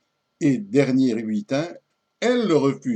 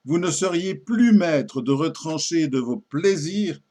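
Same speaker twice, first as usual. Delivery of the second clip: poem recitation. Acted. Lady doubting her lover's restraint, theatrical poem recitation. Recites the lady's final refusal.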